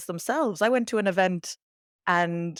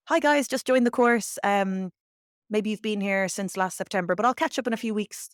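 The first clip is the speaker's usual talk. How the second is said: higher, louder, breezy student voice; cheerful and open; 4 semitones higher, 3 dB louder than usual. Retold or imitated. International student greeting classmates, cheerful and higher. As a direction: sound like a keen new student. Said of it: "very open, very cheerful about it".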